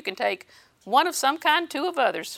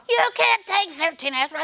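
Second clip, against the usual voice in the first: higher, mock-worried husband; husband's warning; 7 semitones higher than usual. Wayne warning his wife about the aspirin, mock-worried. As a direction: lightly voice the fretting husband. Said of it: "He always says".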